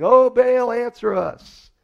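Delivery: high, loud, drawn-out cry to a silent god; desperate calling out. Retold or imitated. Prophets of Baal pleading with their god, loud drawn-out cry. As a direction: wail it slowly up to the heavens.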